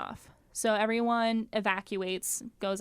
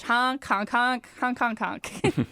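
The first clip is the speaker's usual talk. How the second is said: goose honks; slower than usual. Pretend. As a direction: honk like a goose. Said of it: "let me tell you in your own language".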